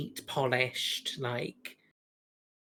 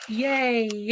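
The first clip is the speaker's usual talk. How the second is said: excited yay; 8 semitones higher, 4 dB louder than usual. Real, not acted. Celebrating not having to argue.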